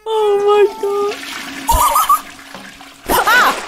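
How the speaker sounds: high, slow wail through laughter; helpless laughter. Real, not acted. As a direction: gasp it out while cracking up. Cracking up at game mishap.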